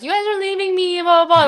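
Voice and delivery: teasing impression of a weepy mother; imitating crying mom. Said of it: "while she's crying".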